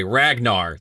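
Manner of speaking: Ragnar said the English way, RAG-nar; English pronunciation. Shown as a demonstration. Host settling on his own way, Ragnar in plain English RAG-nar. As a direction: say Ragnar as spelt, with a hard G. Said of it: "I'm doing it the English way".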